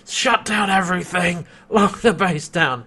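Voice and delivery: hammed-up commanding villain; Scorpius. Acts Scorpius giving urgent orders.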